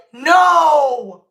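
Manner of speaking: short, loud, defiant no; defying her grandma, a loud no; loud emphatic no. Real, not acted. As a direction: slam the door on it. Emphatic answer to own question.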